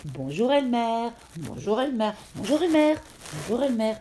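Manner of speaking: lightly voiced different elephants saying hello; chorus of greetings. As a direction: play several elephants greeting in turn. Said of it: "on entendait se saluer".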